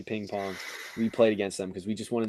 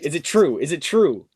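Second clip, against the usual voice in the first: eager questioning; 2 semitones higher, 5 dB louder than usual. Retold or imitated. Classmates repeat the eager question.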